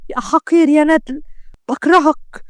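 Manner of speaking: slow, bitter insult; hurt anger. Acted. Isra cursing the man who played her, hurt anger. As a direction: spit out the hatred, slowly at first. Jilted woman insults the cad.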